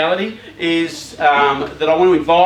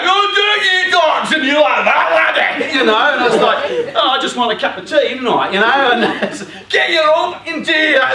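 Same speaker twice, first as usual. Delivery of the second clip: loud, high hammed-up Scottish yelling; mock Scottish; 10 semitones higher, 6 dB louder than usual. Preacher mocking a yelling Scottish family, loud and high. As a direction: shout it like a Scots family at home. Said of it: "that's Scottish".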